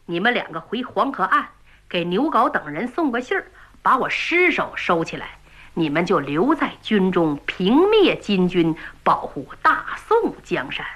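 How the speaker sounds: lightly voiced general giving last orders; calm marshal. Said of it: "岳飞说".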